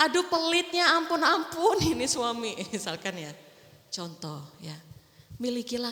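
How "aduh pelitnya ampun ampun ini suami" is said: higher, louder exasperated wail; mock exasperation; exasperated wife. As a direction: moan about a stingy husband.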